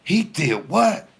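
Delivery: imitating mom's disbelief, high and slow; mother hearing bad news, high and stunned; shocked mother. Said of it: "she couldn't even hold herself".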